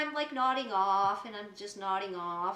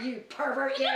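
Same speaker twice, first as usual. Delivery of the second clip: laughing. Retold or imitated. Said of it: "I realized what it was".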